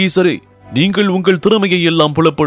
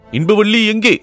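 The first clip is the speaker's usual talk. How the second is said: higher call with a falling end; insistent high question, falling at the end; repeated searching call; 10 semitones higher than usual. Acted. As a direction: call out high, then let it drop. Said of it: "என்று கேட்டார்".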